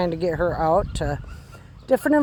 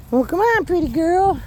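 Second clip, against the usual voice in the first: high happy call; 8 semitones higher than usual. Real, not acted. Owner calling her puppy back, high happy call. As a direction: pitch it way up, bright and inviting.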